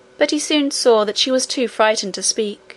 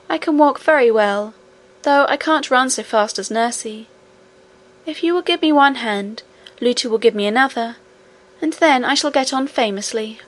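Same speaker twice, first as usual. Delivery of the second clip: put-on slightly raised, polite child-princess character; a hint of an eager young princess; lightly voiced little princess. Princess accepts help from nurse and miner, lightly voiced.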